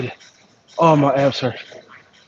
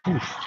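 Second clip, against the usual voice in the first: strained exhale; 5 semitones higher, 8 dB quieter than usual. Real, not acted. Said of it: "excuse the heavy breathing".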